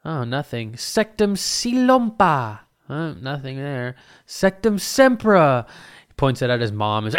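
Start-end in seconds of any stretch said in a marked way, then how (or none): 0.7-2.6 high, slow mock incantation; imitating Snape casting. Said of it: "Snape was like". 4.3-5.6 high, slow mock incantation; imitating Snape casting. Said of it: "Snape was like".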